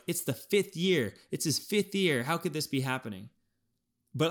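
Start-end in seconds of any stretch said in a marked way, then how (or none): 0.1-3.3 lightly voiced exasperated fans, starting higher; mildly mock the impatient critics, pitch easing down at the end; a hint of disbelieving complaint; imitating doubters. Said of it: "a lot of people look at this and they're like".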